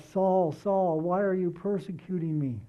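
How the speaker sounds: an urgent cry from heaven. Retold or imitated. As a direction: call out Saul, Saul with urgency. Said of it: "He cried out".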